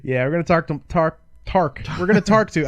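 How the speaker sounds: numb mouth, words slurring; numb from the dentist. Real, not acted. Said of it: "My, my mouth is still numb".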